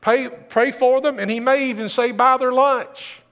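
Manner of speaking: lightly voiced loving Lord; Jesus's voice. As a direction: coax them kindly to forgive. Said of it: "Jesus says".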